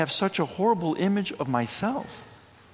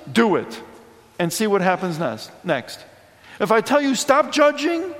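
voice of the Lord; 3 semitones higher than usual. Retold or imitated. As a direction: speak as the Lord, firm and encouraging. Lord speaking in the gospel.

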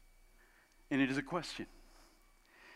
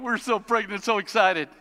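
mock excited couple; 4 semitones higher, 4 dB louder than usual. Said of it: "for those of you going".

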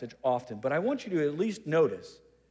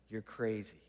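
hushed, lower aside with no real whisper; mock whisper; 7 semitones lower, 10 dB quieter than usual. Peter privately warning Jesus in his ear, mock whisper. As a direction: confide it quietly, imitating a whisper. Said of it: "but he whispered into Jesus' ear, and he said".

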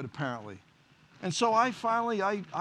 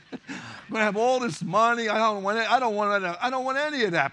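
emphatic refusal; 4 semitones higher, 7 dB louder than usual. Retold or imitated. Retold panicked thought about fame.

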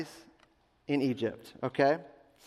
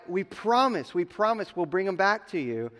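higher-pitched earnest promise, lightly acted; mild acted pleading; 5 semitones higher than usual. Brothers assuring their father they'll return Benjamin, mild pleading.

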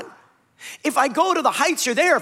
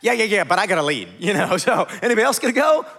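laughing mock Saul; 3 semitones lower, faster than usual. Saul dodging, voiced with laughs.

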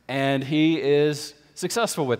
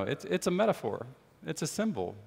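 softer, dropping to a hush; quiet reassurance; 2 semitones higher, 8 dB quieter than usual. Retold or imitated. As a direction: settle the fear gently and softly. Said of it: "he'll say".

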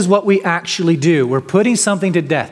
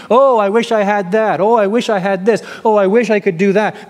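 a light, hammed-up whine of wishing; mock whining sluggard; 3 semitones higher, faster than usual. Preacher mimicking the sluggard to his congregation, mock whine. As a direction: imitate the lazy man's grumbling, slightly quick. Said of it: "He's always whining and grumbling and complaining".

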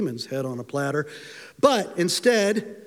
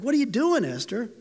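baffled; 4 semitones higher than usual. Retold or imitated. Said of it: "You're like".

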